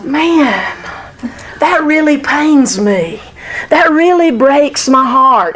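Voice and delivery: slow, pained sympathy with pauses; heartfelt sympathy. Acted. Merciful person answering someone who is struggling, heartfelt sympathy. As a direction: let each phrase land slowly, as if it hurts. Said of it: "And they genuinely mean that".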